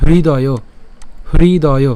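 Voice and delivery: হৃদয় opening on breath-h plus "ri"; pronunciation demo. Shown as a demonstration. Teacher modelling for learners, হৃদয় as "hri-doyo". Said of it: "হৃ, এই চারাই উচ্চারণ করব".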